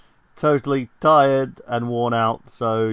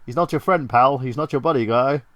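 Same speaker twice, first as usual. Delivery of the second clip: mock Canadian quote; 4 dB louder than usual. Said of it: "I go into that whole thing".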